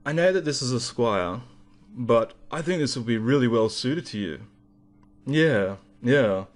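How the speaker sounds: imitating a pretentious guitar shop salesman; put-on salesman voice. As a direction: do a lightly affected, condescending store clerk. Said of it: "this is actually how he was talking".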